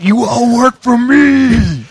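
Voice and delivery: loud, high, slow taunt; taunting shout. Pretend. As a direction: yell it down at them like a boss. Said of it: "are you doing that as, like, your taunting thing?".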